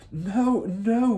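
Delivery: teacher crying out against the headmistress. Acted. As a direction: cry out in alarm. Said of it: "Miss Honey cried out".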